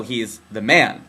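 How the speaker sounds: low, drawn-out label for authority; oppressor "the Man". Acted. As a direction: drag out MAN with heavy meaning. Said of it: "the man holding us down".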